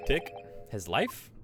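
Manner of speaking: slow, halting, rising question; stunned disbelief. Acted. Accused repeating a charge of murder, stunned disbelief.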